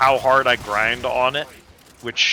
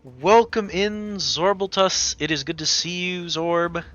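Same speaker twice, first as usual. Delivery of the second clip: cute anime streamer; 4 semitones higher than usual. Acted. Greeting incoming raid, tea house host.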